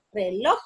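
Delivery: "reloj" in two beats, re-LOJ; stress on LOJ. Shown as a demonstration. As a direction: separate re from a firm LOJ in "reloj". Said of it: "lleva la sílaba tónica en loj".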